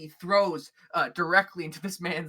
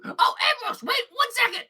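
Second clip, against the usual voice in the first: high, loud shout after him; calling out; 7 dB louder than usual. Acted. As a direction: call him back from across the room. Gleb calls after Ambrose.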